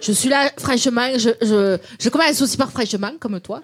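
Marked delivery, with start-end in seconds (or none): 0.6-1.1 demonstrated Marseille twang; light Marseille accent. Shown as a demonstration. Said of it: "l'accent marseillais, tu sais faire". 2.7-3.1 demonstrated Marseille twang; light Marseille accent. Shown as a demonstration. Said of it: "l'accent marseillais, tu sais faire".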